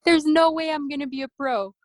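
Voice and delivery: can't believe it, squealing no way; shocked disbelief. Retold or imitated. Athlete retelling the coach's jacket surprise, stunned and high.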